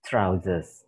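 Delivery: "trousers" repeated as /traʊzəs/; teacher repeats "trousers" clearly; model pronunciation. Shown as a demonstration. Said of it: "One more time".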